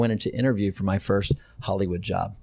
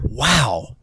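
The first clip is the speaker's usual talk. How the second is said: slow, higher-pitched retold amazement; stunned disbelief; 4 semitones higher, much slower than usual. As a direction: spread the words out in disbelief. Retold stunned thought after boss's insult.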